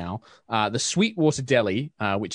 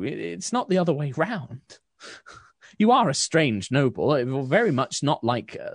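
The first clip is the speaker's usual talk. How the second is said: higher, earnest shopkeeper voice; grateful baker; 4 semitones higher than usual. Acted. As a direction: baker thanks the noble for her care, higher and earnest. Susan thanks the noble.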